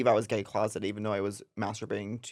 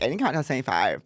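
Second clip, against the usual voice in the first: fast gay voice; much faster than usual. Retold or imitated. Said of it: "when I talk like this".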